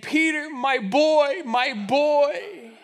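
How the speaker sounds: slow, tender dog voice, lightly voiced; a loyal old dog greeting his boy, drawn out. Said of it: "in his dog voice is saying".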